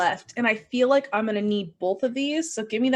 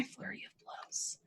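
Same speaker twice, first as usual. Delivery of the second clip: whispered; 22 dB quieter than usual. Real, not acted. Announcing attack.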